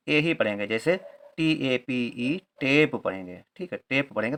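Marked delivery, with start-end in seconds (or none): 2.6-3.0 टेप with a long e vowel, like tape; correct reading. Shown as a demonstration. Teacher reads टेप correctly for learners. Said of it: "ताप नहीं पढ़ेंगे".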